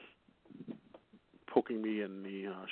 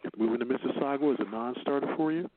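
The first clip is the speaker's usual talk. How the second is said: sexy phone operator voice. Acted. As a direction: purr the news like a late-night hotline. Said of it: "I'm gonna do this in my sexy voice".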